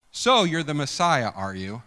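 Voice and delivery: mock him with fake recognition; scoffing taunt that falls away at the end; sarcastic. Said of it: "we understand sarcasm".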